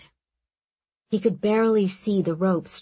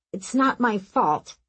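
grumbled; 3 semitones higher than usual. Acted. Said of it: "Aram grumbled".

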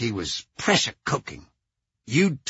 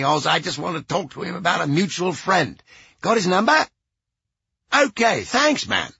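lightly voiced old musician, higher; a hint of a cranky old rocker on the phone; gruff old rocker; 4 semitones higher than usual. A rock singer on the phone.

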